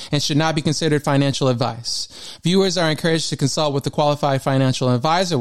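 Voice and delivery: steady read-out of small print; fast legal disclaimer. Acted. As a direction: run through the disclaimer evenly.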